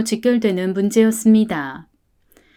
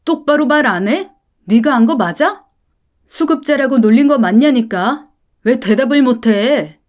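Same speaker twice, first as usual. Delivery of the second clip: angry father; 3 semitones higher, 5 dB louder than usual. Acted. Father furiously grilling the class president, loud. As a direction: bark at the boy to answer. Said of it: "화가 나서 반장아이를 매섭게 다그쳤더랬죠".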